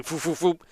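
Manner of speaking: quick soft whooshing sewing sounds; imitated sewing noise. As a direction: mimic a needle flying through cloth. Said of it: "It just very quickly".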